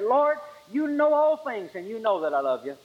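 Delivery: Peter pushed too far, snapping back in irritation; exasperated Peter. Retold or imitated. Peter, irritated at the third question, exasperated. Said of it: "Peter got exasperated and irritated".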